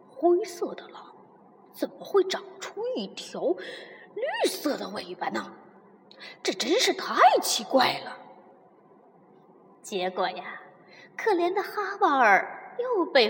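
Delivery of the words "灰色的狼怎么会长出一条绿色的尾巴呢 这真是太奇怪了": mutter. Acted. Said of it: "他嘀嘀咕咕道".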